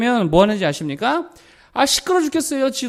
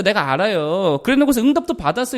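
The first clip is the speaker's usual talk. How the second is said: ordinary talk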